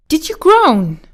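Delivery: put-on high-pitched girl asking a question; girl's questioning voice. A narrator's reading. Dorothy asks the stranger whether he groaned, high girlish voice. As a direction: lift the voice high, curious little girl.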